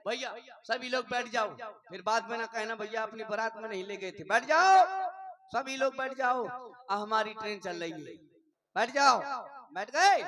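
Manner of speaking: बहुत ज़ोर से, ऊँची आवाज़ में पुकार; भीड़ को बैठाने के लिए चिल्लाना; बारातियों को पुकारना. Pretend. (दूल्हा बारातियों को ट्रेन में बैठने के लिए ज़ोर से पुकारता)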